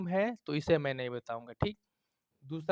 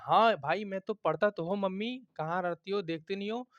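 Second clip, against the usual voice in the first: पढ़ता pushed higher, indignant; emphatic insisting; 4 semitones higher than usual. Shown as a demonstration. Child protests to mother he studies, emphatic and indignant. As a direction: insist firmly, a bit higher. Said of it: "जोर लगा के बोल रहे हैं कि".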